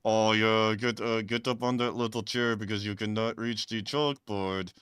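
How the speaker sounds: hammed-up sultry voice; a touch of mock sexy talk; mock seductive. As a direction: purr at the math.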